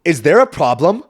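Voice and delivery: loud, challenging mock demand; hammed-up confrontational lady; a woman storms up to the dad, mock angry.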